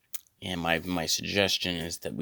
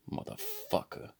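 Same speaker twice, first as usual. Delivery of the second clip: far higher, soft strange squeak; mock assistant curse; 10 dB quieter than usual.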